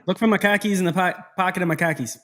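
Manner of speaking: quick mock Boston accent; Boston accent imitation. Co-host teasing the Bostonian about khakis, mock Boston accent. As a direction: tease with broad Boston ah sounds. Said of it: "you know, the Boston things".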